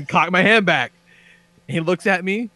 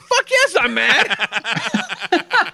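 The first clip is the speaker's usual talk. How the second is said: mock angry shout; 7 semitones higher, much slower than usual. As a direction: bark it back half laughing. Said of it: "I'm like".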